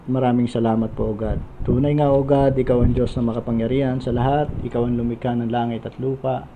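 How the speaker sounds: calm, steady prayer to God before the sermon; earnest prayer. Real, not acted. Preacher praying before the sermon, earnest and steady. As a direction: pray sincerely, unhurried.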